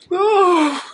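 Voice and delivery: a breathy sigh, then a sudden high, loud "oh"; failed fake cry. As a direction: try to fake a sob and fail at once. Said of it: "I can't fake cry".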